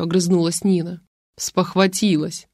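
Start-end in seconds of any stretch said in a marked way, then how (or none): 1.4-2.5 barking. Acted. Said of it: "рявкнул Юрий".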